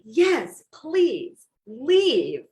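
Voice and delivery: high, loud, gleeful dog voice with a breathy start; a delighted dog cheering you out the door; voicing the dog. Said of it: "your dog is like".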